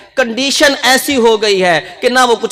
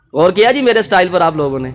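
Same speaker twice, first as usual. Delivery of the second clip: mock swagger; 3 semitones lower, faster than usual. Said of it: "اس نے کیا کہا؟".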